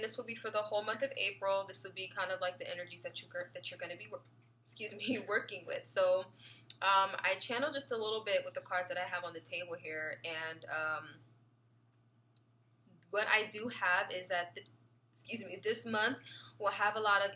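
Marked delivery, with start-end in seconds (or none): 1.7-5.8 talking through hiccups; suppressing hiccups. Real, not acted. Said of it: "I just got the hiccups". 14.5-16.2 talking through hiccups; suppressing hiccups. Real, not acted. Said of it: "I just got the hiccups".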